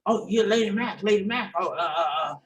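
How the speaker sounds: lightly imitated musician, mumbling filler sounds; a hint of his manner of talking; lightly put-on bandleader voice; the musician's voice. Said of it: "He talked like this".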